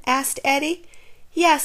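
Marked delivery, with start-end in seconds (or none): 1.3-1.6 put-on high squeaky girl voice; squeaky disguised voice. A narrator's reading. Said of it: "squeaked Clara".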